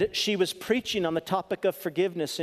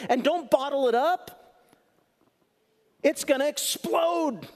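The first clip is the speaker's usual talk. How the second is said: emphatic warning; 8 semitones higher than usual. Real, not acted. Warning not to bottle feelings.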